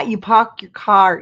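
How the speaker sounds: put-on slow, half-hearted try at a Boston accent; loud, amateur New England accent attempt. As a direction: have a clumsy go at New England speech. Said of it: "I can't say it".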